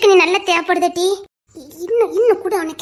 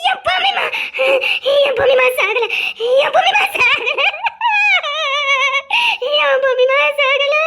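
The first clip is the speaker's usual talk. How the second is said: laughing through tears, voice breaking; overwhelmed, half sobbing and half laughing; tearful joy; 5 semitones higher than usual. Acted. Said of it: "இவ்வளவு கண்ணீர் வடிக்கிறாங்கன்னா". (ஆனந்தக் கண்ணீருடன் உடைந்த குரல்)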